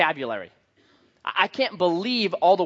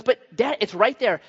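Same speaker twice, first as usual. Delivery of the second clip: lightly voiced child, higher pitched; a touch of pleading little boy; toddler son; 4 semitones higher than usual. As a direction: insist like a two-year-old, mildly imitated. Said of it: "This is how he talks to me now".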